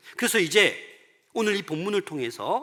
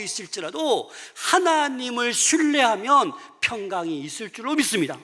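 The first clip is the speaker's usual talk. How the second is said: loud, high, building pulpit exhortation; impassioned preaching; 6 semitones higher, 7 dB louder than usual. Real, not acted. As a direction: preach at full force to rouse the congregation.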